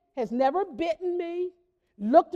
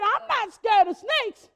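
put-on bold teen; 4 semitones higher than usual. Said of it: "She said".

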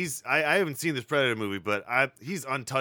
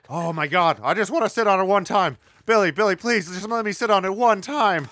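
put-on pleading, higher kid voice; 4 semitones higher, 6 dB louder than usual. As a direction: beg like an excited kid. Plays kid begging for couch.

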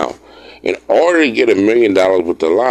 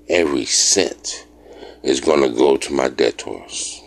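mock serious; 3 semitones lower than usual. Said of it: "I couldn't even say that with a straight face".

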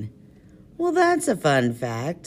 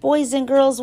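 kindergarten teacher voice; 10 semitones higher, 5 dB louder than usual. Acted. Sign-off to children.

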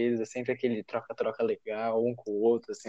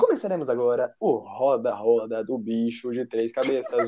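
voz de locutor. Acted. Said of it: "Deixa eu começar com a minha voz".

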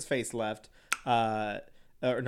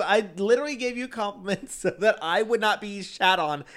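mock offended; 5 semitones higher than usual. Real, not acted. Mock defence, laughing.

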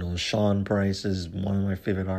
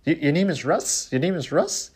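high, rising mock white guy; imitating white dude; 7 semitones higher than usual. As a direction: ham up a nerdy white dude asking. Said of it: "trying to sound like a white dude".

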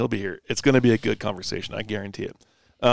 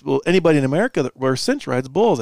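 put-on light English accent; 4 semitones higher, 4 dB louder than usual. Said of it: "he says".

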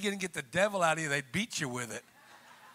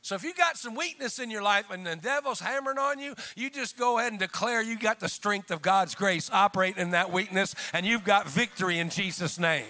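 raised, emphatic preacher's voice; forceful preaching; 3 semitones higher, 4 dB louder than usual. Real, not acted. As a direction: drive it home to the congregation.

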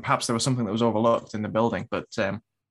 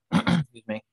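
voice going; slower than usual. Real, not acted. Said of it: "voice is going".

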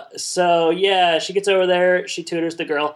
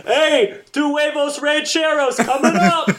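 diner cook voice; 11 semitones higher, slower than usual. Pretend. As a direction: sing out the order over the grill with a laugh.

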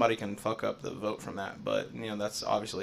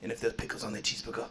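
failed Stewie impression; 2 semitones higher, faster than usual. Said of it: "That did not sound like Stewie".

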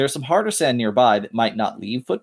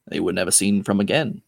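gravelly voice; 5 semitones lower than usual. Acted. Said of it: "a gravelly voice".

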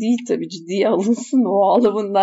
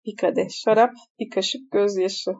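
sakin tekrar. Shown as a demonstration. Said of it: "Hı".

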